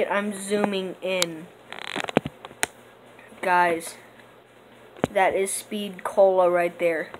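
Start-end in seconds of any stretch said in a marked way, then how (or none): 3.4-7.1 excited telling. Real, not acted. Showing the perk to viewers.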